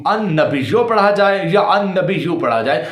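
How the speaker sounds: first "النبیو" ends -yo, second -yu; two readings contrasted. Shown as a demonstration. Showing viewers both are acceptable, readings contrasted. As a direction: contrast "النبیو" as nabiyyo, then nabiyyu. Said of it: "مجھے دونوں قراتیں آتی ہیں".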